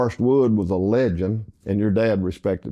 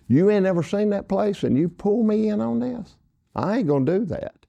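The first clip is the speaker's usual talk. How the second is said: mock indignant refusal, much higher; 11 semitones higher than usual. Dale refusing to pay Parker, high indignant mock protest. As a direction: play the friend digging in his heels.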